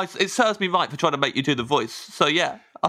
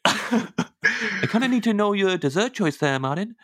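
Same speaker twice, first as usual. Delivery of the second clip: slow, higher attempt at a Minnesotan accent; 5 semitones higher, slower than usual. Gamely asking the guest's dessert choice, effortful Minnesotan accent. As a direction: draw it out in a struggling Minnesotan accent. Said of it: "it's a bloody gallant effort".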